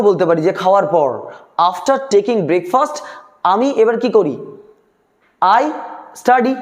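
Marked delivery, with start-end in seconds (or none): 1.7-3.0 slow dictation. Shown as a demonstration. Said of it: "V one লেখা রয়েছে".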